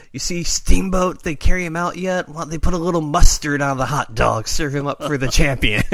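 sneering heel gloating to the camera; Randy Savage taunt. Retold or imitated.

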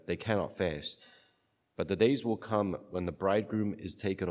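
solemn Gospel reading; cathedral echo. Acted. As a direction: read it like a liturgy.

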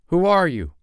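high, loud demand; boy challenging a knocker. Acted. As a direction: call out to the hidden visitor, voice leaping up. Peter challenges the silent knocker.

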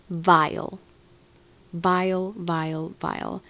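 repeated with growing disgust. Real, not acted. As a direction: spit the word out, then let it fade.

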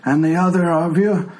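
put-on old man slipping into a Scottish accent; old tiefling's voice sliding toward Scottish; drifting Scottish. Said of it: "now I'm getting Scottish".

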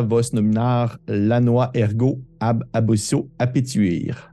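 put-on Latin read aloud with a French accent; accent latin approximatif. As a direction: recite Latin phrase by phrase in a makeshift Latin accent. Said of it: "désolé pour mon accent latin". (latin lu à voix haute avec un accent français)

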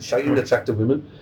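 rough attempt at a Brummie accent; Birmingham accent. Shown as a demonstration. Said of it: "I'll do it in Birmingham accent".

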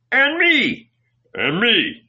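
high, loud cries to be included; eager clamor. A narrator's reading. Disciples squabbling for favour, clamoring. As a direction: jump in, pleading for a share.

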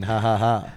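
low, spoken "ha ha ha"; deadpan fake laugh, spaced out; dry, low pretend laughing; mock laugh. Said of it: "I'm just joking".

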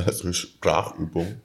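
talking around a big candy; words round a sweet in the mouth; mouth full. Real, not acted. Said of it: "mit einer großen Murmel im Mund".

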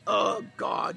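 fervent, driving sermon delivery; impassioned preacher rallying the congregation; full-force preaching. Real, not acted. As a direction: preach it with rising urgency and punched key words.

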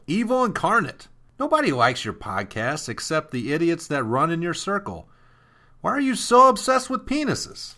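reading the hate letter in a lightly mocking voice; a hint of a whiny troll. Reads the troll's letter aloud.

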